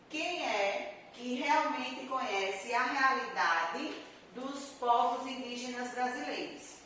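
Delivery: a very slow question that rises on "Quem". Shown as a demonstration. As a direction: read it out as a real, pointed question. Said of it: "Eu fiz um questionamento".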